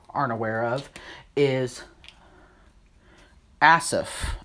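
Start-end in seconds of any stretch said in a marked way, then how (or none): 3.6-4.4 "Asaph" stressed up front, short second vowel; trying a pronunciation. Shown as a demonstration. Teacher tries out a Bible name, tentative pronunciation of "Asaph" as ASS-uf. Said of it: "I'm probably saying it wrong".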